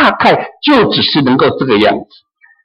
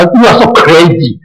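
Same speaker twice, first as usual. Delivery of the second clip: a plain, dismissive jab; mock scornful; 4 dB louder than usual. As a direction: call them crazy with a shrug. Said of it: "不会的，他". (不屑的嘲讽语气)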